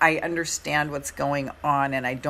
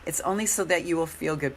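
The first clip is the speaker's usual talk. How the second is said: hoarse after a long workshop; 3 semitones higher than usual. Real, not acted. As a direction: talk through a hoarse throat. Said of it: "Pardon my hoarse voice".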